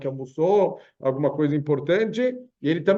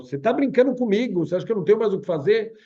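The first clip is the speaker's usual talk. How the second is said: louder, higher mock yell at the caller; retold yelling; 4 semitones higher, 4 dB louder, faster than usual. Millionaire yells at the begging caller, mock shouting. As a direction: millionaire shouting down the phone, hammed-up. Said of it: "o cara já atende berrando".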